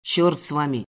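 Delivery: low, sour male captor; grudging mutter. Acted. Captor holding gnawed ropes, grudging and low. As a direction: squeeze it out with annoyance. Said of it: "и процедил".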